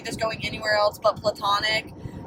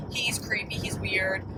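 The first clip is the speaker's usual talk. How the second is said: hushed aside; 6 dB quieter than usual. Retold or imitated. Friends' verdict quoted, hushed.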